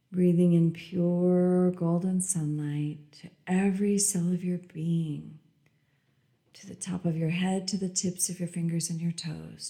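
calm meditative tone. Acted. Repeated meditation phrase, whispered start.

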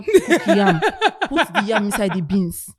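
laughing. Real, not acted. Laughing mock complaint.

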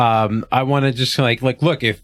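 consoling. Acted. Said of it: "the consoling voice".

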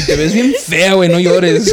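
teasing loud shout in Spanish; half-joking yell at a crier; mock loud scolding. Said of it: "She's all loud".

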